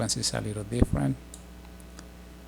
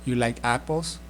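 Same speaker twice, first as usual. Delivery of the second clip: apples lifted at the end; question rise. Shown as a demonstration. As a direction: ask it with rising tune on apples. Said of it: "a little accent at the end".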